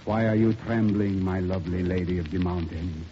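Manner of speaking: lightly hammed-up French sweet talk; French lover. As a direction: croon it softly as a melodramatic French lover. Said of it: "the character of the French guy".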